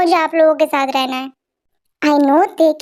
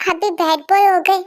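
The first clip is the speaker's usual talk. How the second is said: put-on small child voice; 3 semitones higher than usual. Little boy teasing his aunt in a childlike voice. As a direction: play a cheeky little kid showing off.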